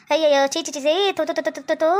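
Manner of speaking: low, repeated tuts of disgust. Acted. Villager to a short-skirted girl, disgusted spluttering. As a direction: sputter in scandalised disgust.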